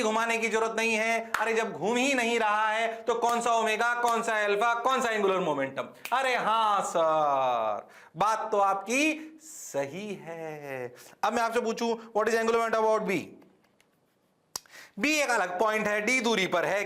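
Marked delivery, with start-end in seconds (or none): 6.1-10.9 mock sheepish student.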